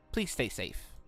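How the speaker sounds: ordinary delivery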